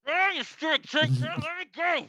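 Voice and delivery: shrill, very high frantic screeching creature; struggling creature. Acted. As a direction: squeal like a trapped little beast. Captured creature keeps struggling.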